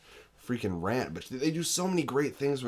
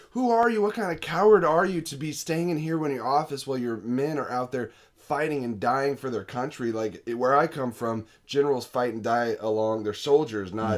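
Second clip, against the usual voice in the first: angry yelling; 3 semitones higher, 4 dB louder than usual. Retold or imitated. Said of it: "she just starts screaming at the general".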